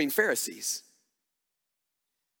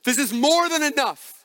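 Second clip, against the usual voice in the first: despairing cry; 9 semitones higher, 4 dB louder than usual. Retold or imitated. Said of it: "they come to this moment".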